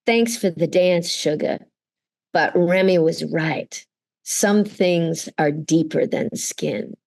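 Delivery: lightly acted in-character delivery, slowing at the end; Rogue. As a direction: deliver it as a scripted line, unhurried. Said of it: "that Rogue should say there".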